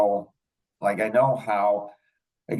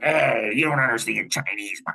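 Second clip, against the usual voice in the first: a raised, mock-indignant retort, pitched up; imitating angry wife. Friend imitating her angry rebuke at him. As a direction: act out her irritated snap at him. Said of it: "she's all angry".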